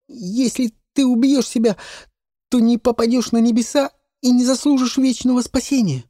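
put-on high, loud boyish pleading; boy warning his mistress about heaven. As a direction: beg her not to sin, as a young boy.

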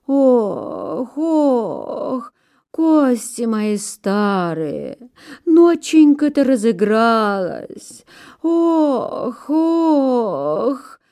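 slow, drawn-out groans and lament; groaning old pine. A narrator's reading. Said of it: "стонет сосна".

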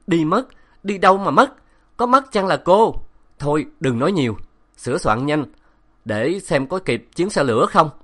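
high, loud gruff brush-off; gruff retort. A narrator's reading. Professor brushing off her question, loud and impatient. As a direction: snap back, impatient.

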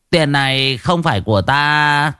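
sly mock prayer. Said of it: "tủm tỉm cười".

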